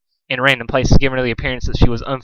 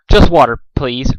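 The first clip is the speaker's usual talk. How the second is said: polite; 3 dB louder than usual. Acted. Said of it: "Rarity said politely".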